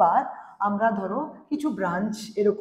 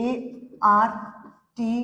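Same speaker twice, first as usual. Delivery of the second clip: letters of এআরটি drawn out very slowly; stretched spelling; much slower than usual. Shown as a demonstration. (এআরটি খুব ধীরে টেনে বানান)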